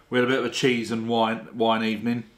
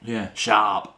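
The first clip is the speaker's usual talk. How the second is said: whisper. Real, not acted. Agrees in a hushed aside.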